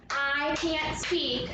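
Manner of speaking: "I can't speak" slow, words spaced out; one beat per word. Shown as a demonstration. Teacher counts the syllables, slowly word by word. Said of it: "each of those has one".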